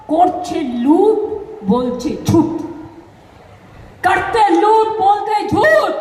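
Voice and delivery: chanted rhyming jab; rhythmic, punchy jeer; punchy slogan. Acted.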